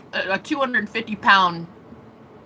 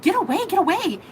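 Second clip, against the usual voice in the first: higher, quick get-away; mock shooing; 9 semitones higher than usual. Fending off the souls in the void, higher mock shooing. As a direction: swat them off with your voice, higher.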